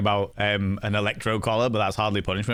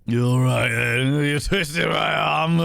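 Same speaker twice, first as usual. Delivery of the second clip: put-on slow, louder Yorkshire drunk; Yorkshire accent; 3 semitones higher, 3 dB louder, slower than usual. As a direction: tease in a slow Yorkshire drawl. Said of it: "drunk with Yorkshire accent".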